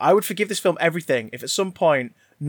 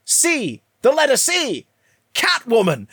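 higher, louder mock-triumphant cries; mock eureka; 8 semitones higher, 3 dB louder, slower than usual. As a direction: shout it like a brilliant deduction. Mock-excited film deduction.

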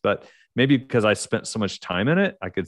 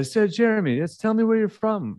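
curious Brit; 13 semitones higher than usual. Retold or imitated. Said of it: "people would go".

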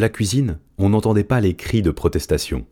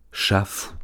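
whisper; 3 semitones higher, 4 dB quieter than usual. Acted. Zorba musing on human's words.

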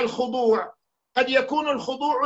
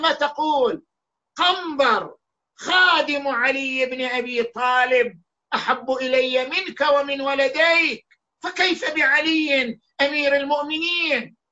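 raised, indignant rebuke, pitch climbing higher; angry retort; 3 semitones higher than usual. Retold or imitated. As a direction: hurl it back at the caliph in anger. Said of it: "وهو غاضب". (ردّ غاضب بصوت مرتفع)

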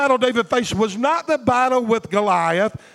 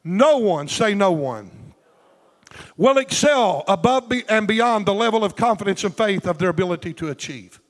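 slow emphatic; 2 semitones lower than usual. Shown as a demonstration. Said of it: "I wanna go slow right here".

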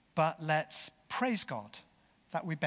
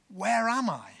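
louder, higher desperate cry; desperate groan; 6 semitones higher, 5 dB louder than usual. Acted. Injured bomber asking gentle voices where he is, desperately. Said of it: "with desperation, he groaned out".

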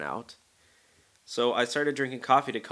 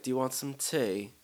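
imitating a British friend, higher voice; bad British accent; 4 semitones higher than usual. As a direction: lightly mimic a British hostess offering tea. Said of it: "one of my friends who's British".

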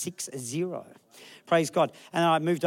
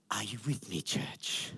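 lower, soft breathy guru voice; grand guru call; 7 semitones lower, 9 dB quieter, slower than usual. Retold or imitated. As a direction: impersonate the counselor pastor's solemn appeal. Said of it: "He spreads out his arms and he goes".

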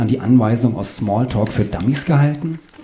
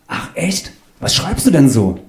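high airy surprise, then eager question; intrigued; 5 semitones higher than usual. Acted. Claudius hears he's an author, high and intrigued. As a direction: react high, then ask with keen interest.

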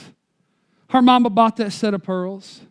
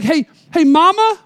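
put-on high, louder eager child calling; begging little girl; 7 semitones higher, 5 dB louder than usual. Girl begs mama at the checkout, high and eager. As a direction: plead like a five-year-old tugging at mama.

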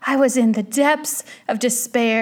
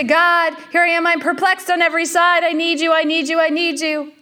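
higher, pleading prayer without shouting; calling out to God; 4 semitones higher than usual. Acted. Preacher acts out someone perplexed calling out to God, pleading. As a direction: repeat the plea urgently, pitched up. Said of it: "we may call out to God".

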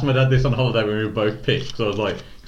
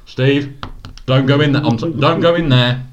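mock urgent dad; 5 semitones higher, 7 dB louder than usual. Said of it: "he was just like".

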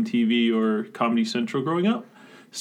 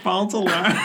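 put-on old man voice; 5 semitones higher than usual. Shown as a demonstration. Listener repeats the old man catchphrase.

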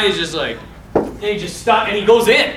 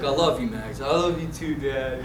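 lower, softer retold affection; tender reconciliation; 5 semitones lower, 6 dB quieter than usual. Dad and Max making up, lightly voiced tenderness.

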